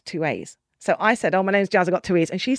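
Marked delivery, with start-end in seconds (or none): 1.3-2.3 put-on Scottish accent on the phone; amateur Scottish accent. Shown as a demonstration. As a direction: attempt a Scottish accent, introducing yourself. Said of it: "do your Scottish accent".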